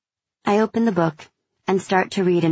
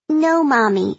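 put-on high, loud firm child; a sassy kid standing her ground; little girl voice; 8 semitones higher, 4 dB louder, slower than usual. A narrator's reading. Child refuses the veto.

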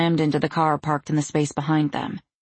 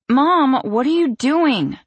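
high, loud shriek; 9 semitones higher, 5 dB louder, slower than usual. A narrator's reading. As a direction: shriek it out in alarm. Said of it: "Dot shrieked".

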